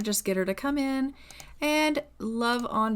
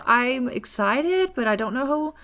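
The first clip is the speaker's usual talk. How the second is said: giddy and overwhelmed; 3 semitones higher, 4 dB louder than usual. Acted. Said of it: "she would be like".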